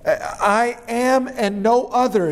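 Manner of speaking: slow and deliberate, weight on "no"; emphatic reading. Shown as a demonstration. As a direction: lean hard on "no" in "I am and no other". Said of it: "in the Greek it's even more emphatic".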